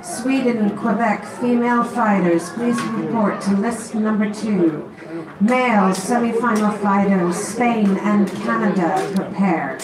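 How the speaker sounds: announcement over the PA; PA announcer calling fighters; over a PA system. Real, not acted. Announcer calls fighters to lists.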